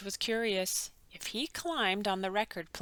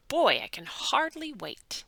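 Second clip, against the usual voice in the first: eager; 6 semitones higher, 5 dB louder than usual. A narrator's reading. Eager boy in hospital.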